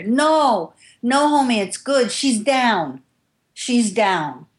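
called out high across the room; calling out from the back. Retold or imitated. Popeye vouching for her from the back of the room, calling out high. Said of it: "from the back of the room I hear".

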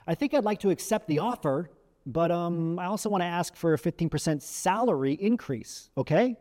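exaggerated stress on "salary increase"; tentative request, then lean on "salary increase"; overdone emphasis with a rising "okay"; overemphasised. Shown as a demonstration. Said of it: "I'm overemphasizing here".

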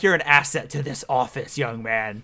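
hint of a stern cop, dropping low on young man; stern hardboiled cop, sinking away at the end; noir police sergeant. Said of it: "what kind of V P is talking like".

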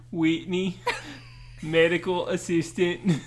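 slow drawn-out reality TV contestant; reality show girl impression. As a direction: play the Big Brother girl introducing herself. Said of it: "spot-on impression of this girl from Big Brother".

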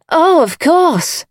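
high, drawn-out, eager assent; fervent agreement. A narrator's reading. Lady Coote agreeing with her gardener, fervently. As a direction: agree far too readily. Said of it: "wondered why she agreed so fervently".

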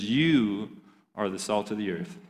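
flat, soft first reading of the verse; subdued scripture reading; low-energy reading. Shown as a demonstration. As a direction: read it quietly, almost to yourself. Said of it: "listen, bring it back".

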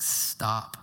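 a hushed, tender Stop; whispered stop. Retold or imitated. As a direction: hush them gently with the word Stop. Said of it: "Paul's like".

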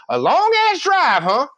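high, slow, stretched echo in mock disbelief; guidance counselor imitation. Counselor repeats the student's excuse, mock incredulous. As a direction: throw the excuse back, drawn out way up high. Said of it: "She goes".

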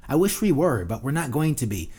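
high, loud, exasperated rant; ranting Jersey reply. Retold or imitated. Answering critics of New Jersey, loud exasperated rant. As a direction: push it hard like you're fed up.

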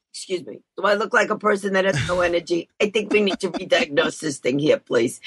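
a touch of sassy disbelief; mock indignant. Patient scoffing at the doctor's diagnosis, mock indignant. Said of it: "looked at the doctor and went".

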